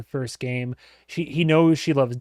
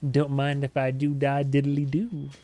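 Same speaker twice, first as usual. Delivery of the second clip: playful, mischievous voicing of a character; devious glee. Host voices the kid eager to break stuff, devious glee. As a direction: voice a sly little troublemaker. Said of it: "The devious little smile".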